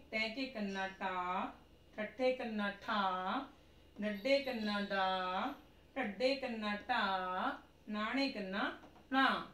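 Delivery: sing-song drill reading; slow recitation. Shown as a demonstration. Teacher modelling the muharni drill aloud, slow chant. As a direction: chant each syllable slowly for the class.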